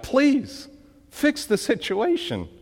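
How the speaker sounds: high pleading "Please," then the rest of the plea; begging. Acted. Preacher voicing the guilty people begging God, high plea. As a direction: beg God to fix it, voice lifted high.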